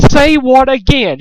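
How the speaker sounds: high, loud, slow threat; menacing threat. A narrator's reading. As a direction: lean in and threaten. Pinkamena threatens.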